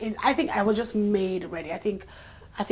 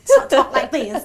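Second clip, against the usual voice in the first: higher, slower Southern Black American accent; 5 semitones higher, 11 dB louder, slower than usual. Shown as a demonstration. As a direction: drawl it out like the Southern Mama. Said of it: "so she sounded like this".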